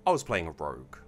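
measured, deliberate storytelling read; story narration. A narrator's reading. Streamer reading a submitted evil campaign story to chat, story narration. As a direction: read it out with phrases starting strong and falling away.

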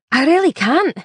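insist, no room to argue. A narrator's reading. The woman refuses to move the passenger, insisting firmly. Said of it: "insisted the woman".

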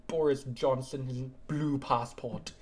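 lightly voiced deep politician, slow at the end; deep Boris Johnson. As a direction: imitate a deep British statesman, drawing out the words. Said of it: "His, like, really deep kind of".

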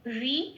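"রি" said as wi, with a w glide; wi sound. Shown as a demonstration. Teacher showing b read as o plus i, "রি" as wi. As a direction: open "রি" on a rounded w, then short i. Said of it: "সেই জন্য ও plus হর্ষে".

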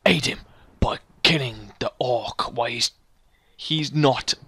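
slow, deliberate game narrator; epic story narration. Acted. Player reading out the quest text, epic narration. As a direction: read it out with grave drama.

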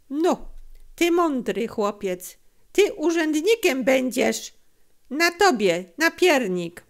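amused dealer offering a treat; smiling. A narrator's reading. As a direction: praise the boy with a smile. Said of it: "uśmiechnął się".

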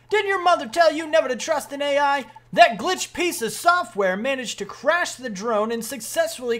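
hammed-up military officer; brief a young soldier with emphatic authority; sergeant briefing voice. Sergeant reporting on the drone to a private, commanding.

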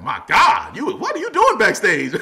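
high and loud, mock astonished; amazed. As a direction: gush like a stunned fan. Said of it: "Everybody was like".

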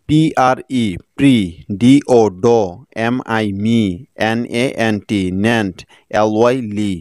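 spelled chunks, each followed by its sound; spell, sound it out, pause, next syllable. Shown as a demonstration. Teacher breaking the next word apart for learners, segmented spelling-out. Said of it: "এভাবে ভেঙে ভেঙে ইংরেজি শিখলে".

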